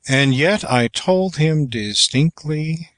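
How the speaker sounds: "distinctly" held up, left hanging at the end; inflection on last syllables. Shown as a demonstration. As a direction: keep the ending of "distinctly" suspended, not dropped. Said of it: "making no modulation until you come to the last two syllables".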